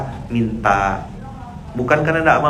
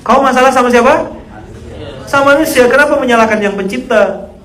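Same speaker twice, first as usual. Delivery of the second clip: much higher, louder rebuke; mock-furious ustadz rebuking; imitated scolding; 12 semitones higher, 7 dB louder than usual. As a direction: scold him for blaming God. Preacher scolding congregant.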